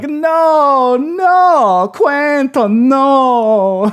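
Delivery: put-on slow Romanian accent, with "no" drawn out. Speaker imitates an actress playing the character Magda: Magda's Romanian accent. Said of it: "I'm going to say Romanian accent, where she's like".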